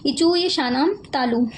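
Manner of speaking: इचूय शानाम तालु said again slowly, each word spaced. Shown as a demonstration. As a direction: repeat the sutra slowly so it sinks in. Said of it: "है ना". ("इचूय शानाम तालु" धीरे-धीरे दोहराना)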